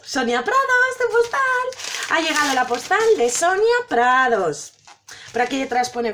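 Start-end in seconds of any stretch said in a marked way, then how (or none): 0.1-4.7 announcer. Acted. Announcing the postcard arrival.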